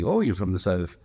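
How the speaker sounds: mock attempt at a Southern accent; bad Southern accent. Strangers greeting a Southerner, badly faked Southern accent. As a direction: imitate someone badly faking a Southern accent. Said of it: "People think that they can do their accent".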